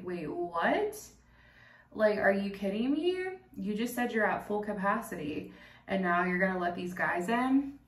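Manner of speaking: mildly incredulous, rising at the ends; stunned disbelief. Retold or imitated. Friends watch others get let in after refusal, retold stunned disbelief. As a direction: retell a baffled objection. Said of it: "my friend and I are fucking stunned".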